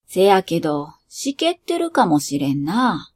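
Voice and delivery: easygoing dad musing about damp fireworks; 関西弁のお父さん、少し低めに; lightly voiced father. Father speaking in Kansai dialect.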